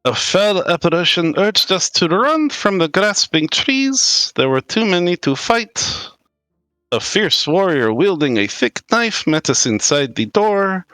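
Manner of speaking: dramatic reading. Acted. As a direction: read the note like a grim omen. Reading the parchment aloud.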